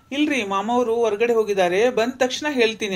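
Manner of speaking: lightly imitated Bangalore city Kannada; mock Bangalore Kannada. Father-in-law mimicking daughter-in-law at the door, mock Bangalore Kannada. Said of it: "ಬಾಯಾಗ ಉಂಡಿ ಇಟ್ಕೊಂಡು ಮಾತಾಡ್ತಾರಲ್ರಿ".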